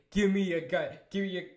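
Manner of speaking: a loud, mock-angry demand for the gun. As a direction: snap it out like she wants to shoot him. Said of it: "Sophia was getting angry".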